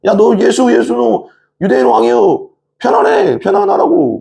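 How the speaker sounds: very high-pitched sing-out taunt; mocking jeer. Soldiers taunting the captive Jesus as king, mocking. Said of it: "약간 조롱조 있잖아요".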